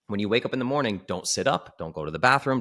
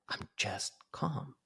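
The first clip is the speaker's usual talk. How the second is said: soft calm; 7 semitones higher, 10 dB quieter, much slower than usual. Retold or imitated. Client quoted calm.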